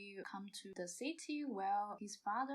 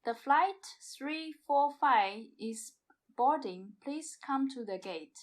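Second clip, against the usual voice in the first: louder, higher announcer call; boarding announcement; 3 semitones higher, 7 dB louder than usual. Shown as a demonstration. An actor announcing flight boarding to passengers, loud and formal. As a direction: project it over the gate area. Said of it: "your best announcement of a plane".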